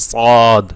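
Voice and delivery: long, full-mouthed সদ; heavy সদ. Shown as a demonstration. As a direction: draw out সদ with a throaty ayn colour. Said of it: "উচ্চারণ করতে গেলে আইনের আভাস পাবে".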